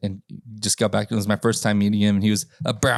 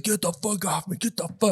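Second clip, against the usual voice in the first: mock struggle; 9 semitones higher, 5 dB quieter than usual. Pinned Borlaug yelling to be released.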